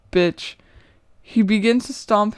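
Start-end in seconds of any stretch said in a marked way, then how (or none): 0.1-0.5 louder, sharp yell at the woman; man shouting at the woman; angry shout. Acted. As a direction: bark it down at her in rage.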